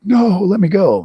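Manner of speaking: high squeaky plea from a hooked rainbow; cartoon fish crying to be let go; voicing a panicked fish. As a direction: play the trout begging to be let off the line. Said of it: "they'll be like".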